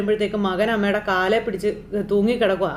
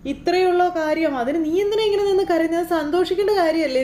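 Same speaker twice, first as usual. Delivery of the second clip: scoffing mother; 6 semitones higher than usual. Retold or imitated. Mother mocking her son for crying over good news, high scoff. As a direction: brush off his tears as silly.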